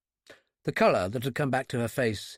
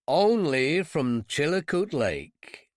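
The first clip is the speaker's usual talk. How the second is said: slow, strained fake American accent; British man faking an American accent; put-on American accent; 3 semitones higher, much slower than usual. British fugitive fakes an American accent for the clerk. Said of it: "My efforts at an American accent".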